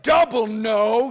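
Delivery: loud, slow, drawn-out mock dread; emphatic dismay. Big passenger looking back at two seatmates, loud slow dismay. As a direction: stretch it out, topping their dismay.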